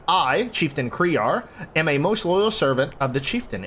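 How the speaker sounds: lightly dramatised envoy tale; story narration. A narrator's reading. Envoy asks adventurers for escort, story narration. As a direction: read it like a storyteller voicing an envoy.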